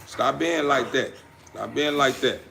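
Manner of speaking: quiet little telling-off to a puppy; soft scold. Real, not acted.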